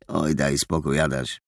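ciche, niskie, znużone mruknięcie. A narrator's reading. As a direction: mruknij zniechęcony pod nosem. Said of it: "mruknął Rafał". (ciche mruknięcie Rafała do Adasia)

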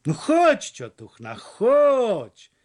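loud, high cajoling call; coaxing the boat. A narrator's reading. Stranger talking to the stubborn boat, coaxing. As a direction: coax the stuck boat like an old aunt. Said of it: "interpelował łódź".

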